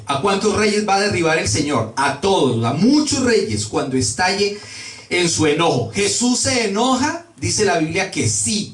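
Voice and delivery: ordinary talk, nothing marked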